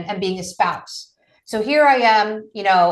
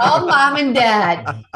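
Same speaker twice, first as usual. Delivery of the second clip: laughing; 3 semitones higher, 4 dB louder, much slower than usual. Real, not acted. Laughing while quoting herself.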